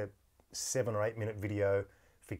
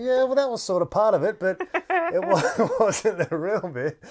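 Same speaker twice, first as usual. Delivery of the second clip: louder, higher words broken by laughter; laughing through it; 11 semitones higher, 11 dB louder, slower than usual. Retold or imitated. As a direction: get the reply out while laughing. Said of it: "I'm laughing to myself".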